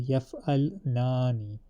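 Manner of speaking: yaf'alnani said slowly, with the heavy noon stressed; heavy noon emphasis. Shown as a demonstration. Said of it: "make it a heavy noon emphasis".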